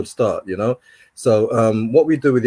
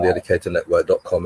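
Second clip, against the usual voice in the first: rattled-off web address; too quick; 5 semitones lower than usual. Real, not acted. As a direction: run the address together quickly, in passing. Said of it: "you said that too quickly".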